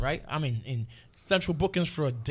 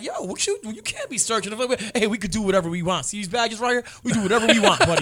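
cocky cop; 3 semitones higher, 4 dB louder than usual. Retold or imitated. Acted cop bragging about badges.

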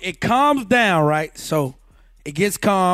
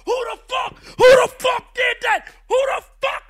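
furious radio yell. Retold or imitated. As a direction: bark like an angry boss on the radio. Boss yelling over walkie-talkie.

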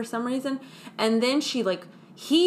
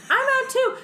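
mock trucker; 4 dB louder, faster than usual. Fifield quitting, voiced high.

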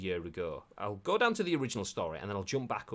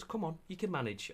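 soft, coaxing pep talk; gentle encouragement; 6 semitones higher, 7 dB quieter than usual. Acted. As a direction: softly urge them on like a pat on the shoulder. Acts out gentle encouragement after scolding.

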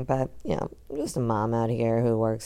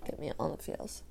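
whispered; 4 semitones higher, 11 dB quieter than usual. Shown as a demonstration.

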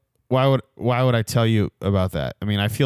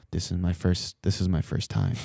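mimicked nervous driver; 4 semitones lower, 7 dB quieter than usual. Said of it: "he turns around and he's like".

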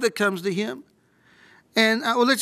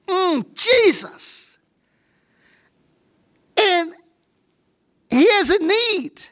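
preaching at full force; 4 semitones higher than usual. Acted. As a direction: pour it out from the pulpit with rising fervour.

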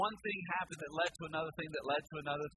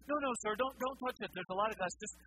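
higher, tight polite waiter warning him off; a waiter holding back irritation, keeping it polite; lightly voiced annoyed waiter; ticked-off waiter; 5 semitones higher, faster than usual. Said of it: "He goes".

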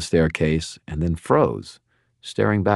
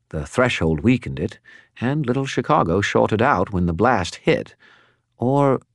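higher, chattering spirit voice; a talkative skull spirit, pitched up; Bob the skull; 4 semitones higher than usual. Acted. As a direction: prattle on like a gossipy spirit. Bob explains the blast.

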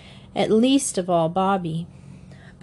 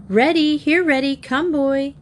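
high, louder call into the distance; calling the dog; 7 semitones higher, 3 dB louder than usual. A narrator's reading. The three calling the setter in the woods, high call. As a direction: call out for a lost dog, pitched up. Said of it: "they stopped to call the setter".

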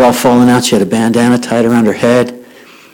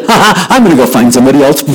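imitated giddy laugh leading into words; laugh, then announce it gleefully; faster than usual. Girl rushes off to share her joy, gleeful laughing.

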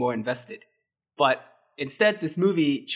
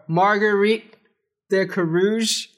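lightly French "Marguerite de Carouge", higher and slow; a mock French accent, slow and raised; French pronunciation; 6 semitones higher, 4 dB louder, slower than usual. Shown as a demonstration. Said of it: "You wanna hit him with the French?".

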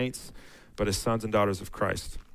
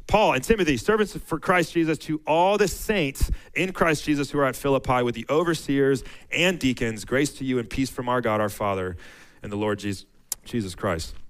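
raised, measured reading of the verses; scripture reading; 2 semitones higher than usual. Acted. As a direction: read it out like a pulpit lesson. Reads Philippians aloud.

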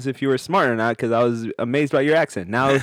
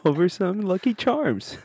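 hint of a British little boy, pitched up; attempted British child; 8 semitones higher than usual. Son complaining to papa, half-baked British child accent. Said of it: "you just tried a child accent".

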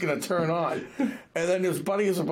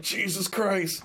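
drawn-out, higher-pitched exasperated oath; hammed-up dismay, words stretched slowly; mock exasperation; 5 semitones higher, slower than usual. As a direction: act out slow disbelief. Acted reaction to the banana.

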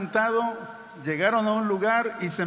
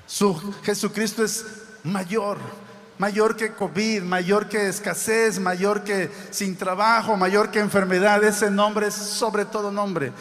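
building preacher's cry; emphatic preaching. Acted. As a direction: pound each "mayor" home. Preaches at full force.

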